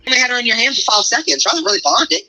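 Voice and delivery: mock taunting a new mother, voice rising; snide mock taunt. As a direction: tease her, pitch climbing on bonded. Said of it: "you're just like".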